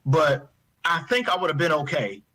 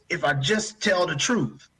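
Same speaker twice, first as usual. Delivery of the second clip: slow, higher, on the edge of tears; fighting to get the words out; holding back tears; 4 semitones higher, slower than usual. Real, not acted. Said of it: "I'm trying not to cry".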